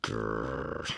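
low frustrated growl. Acted. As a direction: growl under your breath. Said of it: "I said, still pacing".

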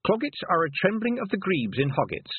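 high, recited textbook entry; reading aloud. A narrator's reading. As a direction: read it out to an audience. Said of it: "she read".

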